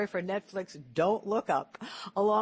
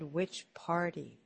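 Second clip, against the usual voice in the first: slow pointed question; 2 semitones lower, 5 dB quieter, much slower than usual. Retold or imitated. Pointed question to Bernie, retold.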